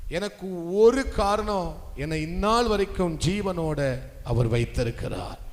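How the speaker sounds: loud, projected sermon voice; forceful preaching. Real, not acted. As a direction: preach it to the congregation with ringing phrase-ends. Preacher exhorting the congregation. (உரத்த குரலில் பிரசங்கம்)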